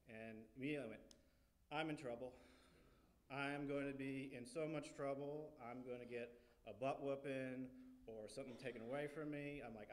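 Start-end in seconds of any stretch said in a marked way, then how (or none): 1.7-9.6 mildly dramatic, emphatic mock panic; mock dread. Kid sure a butt whooping is coming, mock dread. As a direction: spell out your doom with heavy emphasis. Retold child's panic at being in trouble.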